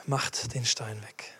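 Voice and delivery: whispered command, slow. A narrator's reading. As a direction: breathe the command softly. Quiet retelling of command. (geflüstert)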